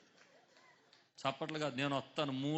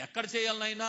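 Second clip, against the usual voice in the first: retold question; 8 semitones higher, 8 dB louder than usual. Retells own question to the Lord.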